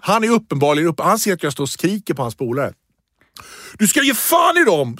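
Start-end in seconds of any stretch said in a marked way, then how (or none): 3.8-5.0 pitched-up shouted warning; high mock yell at the man; kid shouting. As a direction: bark it like the cocky boy. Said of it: "så bara står han och skriker".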